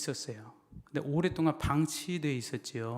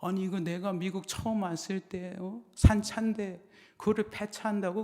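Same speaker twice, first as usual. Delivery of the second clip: higher-pitched, indignant senior pastor; retold angry outburst, pitched up; angry retort; 5 semitones higher than usual. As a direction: imitate an offended elder's protest. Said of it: "그분이 막 화를 내면서".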